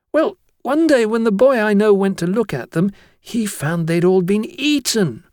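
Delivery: put-on high-pitched boy spinning a tale; chattering schoolboy. Blotwell tells of a terrible tragedy, high schoolboy voice. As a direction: build up the tragedy as an eager pupil.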